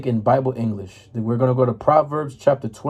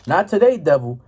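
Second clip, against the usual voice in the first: defiant rebuke; 4 dB louder than usual. Retold or imitated. Preacher voicing Christians rebuking the devil, defiant. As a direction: tell the devil no with bold confidence. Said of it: "the Christians be like".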